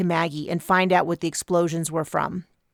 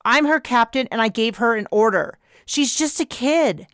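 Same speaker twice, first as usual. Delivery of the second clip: angry captain; 5 semitones higher, 3 dB louder than usual. Acted. Captain argues with Kraken.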